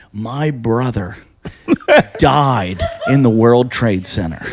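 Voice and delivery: slow, weighty fake grief; grave, drawn-out mock confession; mock solemn. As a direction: lay the lie down slowly, word by word. Solemn lie told to shame complainer.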